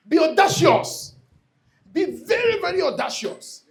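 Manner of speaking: slow, loud command to be bold; preacher's forceful exhortation; emphatic urging. Real, not acted. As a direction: lean hard into each word.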